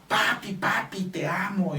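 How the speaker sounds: put-on high, sweet voice of a three-year-old; lightly voiced happy child calling papi; little son's voice. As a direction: mimic the toddler running to hug you. Son greeting dad joyfully.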